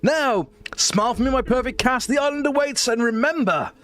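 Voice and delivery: a theatrical host voice, slowing down on the final warning; Victor's showman voice. Acted. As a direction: play the slick director presenting his stars. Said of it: "Victor kind of looks over and goes".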